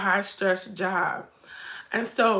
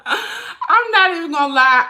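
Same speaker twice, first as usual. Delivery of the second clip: choked up; 8 semitones higher, 8 dB louder than usual. Real, not acted. Mom tearing up over son.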